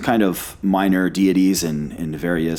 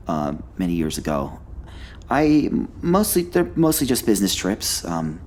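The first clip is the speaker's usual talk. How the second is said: lightly voiced fussy scholar; a hint of a nervous academic. Player stays in character.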